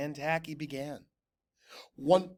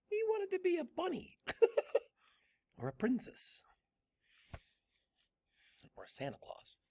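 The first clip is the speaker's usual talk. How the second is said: laughing; 13 semitones higher, 7 dB quieter, faster than usual. A narrator's reading. Narrator laughing at costumes.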